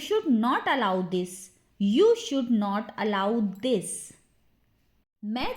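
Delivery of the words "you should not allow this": slowed-down teaching repeat; measured, word-by-word drill. Shown as a demonstration.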